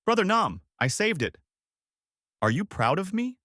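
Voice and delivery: high-pitched call; shouting. A narrator's reading. Kneeling woman calling to her brother, high shout. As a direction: call out high, then ask hopefully.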